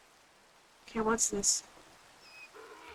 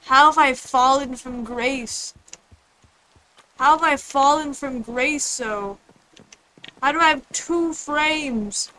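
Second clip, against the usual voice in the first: mock lament; 2 semitones higher, slower than usual. Lamenting lag dramatically.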